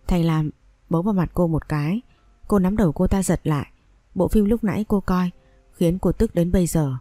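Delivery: plain reading voice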